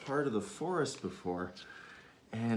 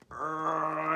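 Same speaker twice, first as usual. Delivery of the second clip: bear-like grunt; 4 semitones higher than usual. Acted. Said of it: "with a bear-like grunt".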